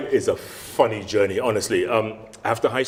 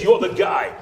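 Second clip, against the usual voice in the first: excited insistence; 9 semitones higher, 6 dB louder than usual. Retold or imitated. Trainer excited at discovery.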